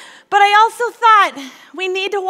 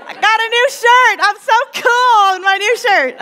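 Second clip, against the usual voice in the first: much higher, hammed-up hip voice; mock cool youth pastor; 6 semitones higher, 4 dB louder than usual. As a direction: play the cool kid in a new shirt, over the top. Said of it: "We feel young and hip".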